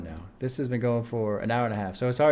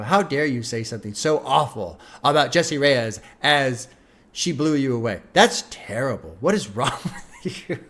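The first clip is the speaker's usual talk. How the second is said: hammed-up indignation breaking into a laugh; mock outrage. Host jokingly scolding a chatter, mock outrage. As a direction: scold in pretend horror, then crack up.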